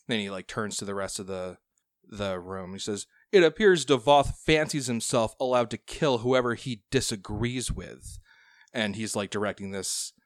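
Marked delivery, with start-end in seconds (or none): 3.3-8.2 oily voice. Acted. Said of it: "the most oily voice".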